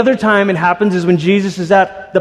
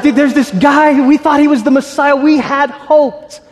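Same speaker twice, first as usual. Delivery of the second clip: casual disciples; 8 semitones higher than usual. Acted. Disciples telling the stranger their hope died, casual then deflated. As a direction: play the disappointed disciple, casual then let down. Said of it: "and they're like".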